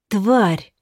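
a sharp, bitter curse thrown at her; spat insult. Acted. Chained woman curses her captor, bitter snap. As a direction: spit the word out with contempt.

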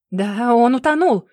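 loud roared yes. Acted. Brother roaring back at his sister, loud shout. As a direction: bellow it defiantly. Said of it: "взревел парень".

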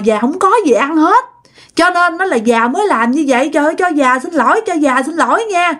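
high, repetitive begging, lightly acted; mock tearful pleading. Old woman explains her hunger to the couple, mock tearful pleading. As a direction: plead as a hungry old woman pretending to weep. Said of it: "bả mới khóc lên".

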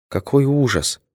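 put-on high, soft old lady's exclamation; a gasping old woman's cry; old lady exclaiming. A narrator's reading. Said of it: "воскликнула Изольда Генриховна".

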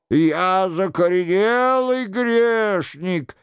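slow, drawn-out penitent confession; mock-royal penitent, stretching the words; imitating the king. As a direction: confess slowly as a pretend king. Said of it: "подражая голосу короля".

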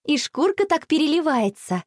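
admiring. A narrator's reading. Sister admires fur.

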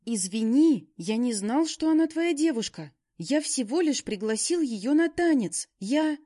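high, loud, pleading excuse; frightened apology. A narrator's reading. Mark apologises to the angry boyfriend, frightened. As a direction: blurt out a panicked apology.

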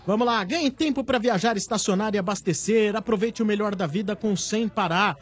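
upbeat radio ad read. Acted. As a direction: sell it like a radio spot. Host reads a sponsor ad.

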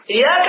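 إياك with the y kept single and light; undoubled ياء in إياك, like "iyaka"; ya without doubling. Shown as a demonstration. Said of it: "لا بد أن تقول إياك بتشديد الياء". (نطق إياك بياء مخففة)

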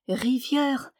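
appel. A narrator's reading. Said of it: "s'écria-t-il".

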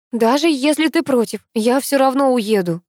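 passionate assurance. A narrator's reading. Granddaughter insisting to grandmother she will leave, fervent. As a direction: promise it hotly, no backing down. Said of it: "горячо заверила я".

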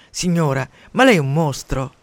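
put-on loud, appalled cry at the old woman; shocked exclamation. The priest crying out at the dying sinner, loud horror. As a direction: burst out in horror. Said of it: "il prete esclamò".

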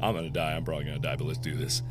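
low quiet resignation; resigned murmur. Real, not acted. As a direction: say it softly, expecting doom. Resigned quiet before the night.

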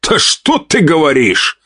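high, drawn-out mock astonishment; exaggerated fake wonder; feigned surprise. A narrator's reading. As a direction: sarcastically pretend to be amazed. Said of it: "наигранно выпучил глаза и сделал удивлённое лицо".

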